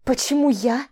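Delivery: сиплый сдавленный вопрос под тяжестью; выдави слова, придавленная чужой рукой; сипло. Acted. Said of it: "Просипела я под тяжестью". (сипит, зажатая под мышкой)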